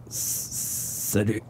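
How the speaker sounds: whispery stammer, very soft; faint dying farewell. A narrator's reading. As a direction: force out a goodbye with failing breath. Dying man says goodbye.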